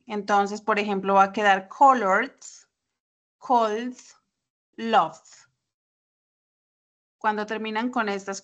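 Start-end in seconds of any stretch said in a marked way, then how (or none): 1.7-5.2 colored, cold, loved with the E of -ed dropped; D endings. Shown as a demonstration. Teacher lists colored, cold, loved, D endings. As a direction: end colored, cold, loved on D, no extra syllable. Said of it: "se pronuncia el sonido D".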